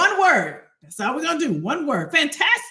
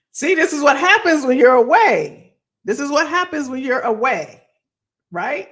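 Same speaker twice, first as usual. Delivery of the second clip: mock scolding; 6 dB louder than usual. Teasing self about being away.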